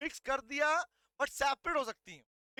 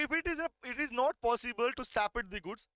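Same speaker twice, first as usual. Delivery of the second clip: slow, deliberate reading of the law text; slow dictation; much slower than usual. Shown as a demonstration. Teacher dictating slowly to students. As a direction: dictate each word slowly to the class. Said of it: "कह रहा".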